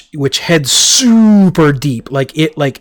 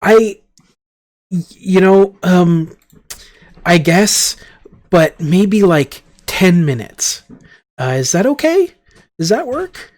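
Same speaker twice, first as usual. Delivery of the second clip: ambassador voice; 5 semitones higher, slower than usual. Acted. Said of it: "so he's like".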